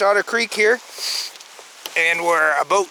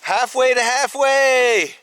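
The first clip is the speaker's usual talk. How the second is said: delighted echo; 7 semitones higher, 4 dB louder, slower than usual. Real, not acted. Louder, delighted echo of joke.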